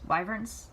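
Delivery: wyverns? with a questioning rise, /waɪvɚnz/; testing "wyverns?" with WHY; unsure wyvern. Shown as a demonstration. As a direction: try "wyverns?" like WHY-verns, rising doubtfully. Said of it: "don't know how to say that word".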